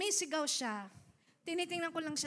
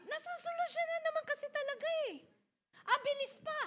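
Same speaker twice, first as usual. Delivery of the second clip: mock admiring; 11 semitones higher, faster than usual.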